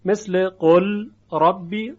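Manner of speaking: قل ربی drawn out slowly; slow Quranic recitation. Shown as a demonstration. Teacher slowly demonstrating قل ربی for students. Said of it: "هیچ اثر صوتی از لام باقی نیست".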